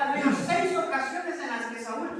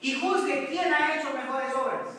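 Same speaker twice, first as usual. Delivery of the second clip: preached shout, louder and higher; impassioned cry up to the king; David shouting; 3 semitones higher, 4 dB louder than usual. Retold or imitated. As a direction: call out to the king across the distance, pleading. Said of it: "David le grita y le dice".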